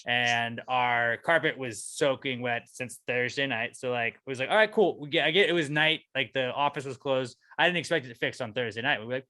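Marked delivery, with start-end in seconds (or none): 4.5-5.0 sarcastic. Retold or imitated. Sarcastic reaction to flooding.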